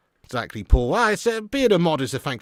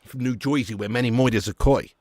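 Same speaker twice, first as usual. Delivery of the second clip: New Jersey accent; 3 semitones lower than usual. Shown as a demonstration. Shows New Jersey accent after accent talk.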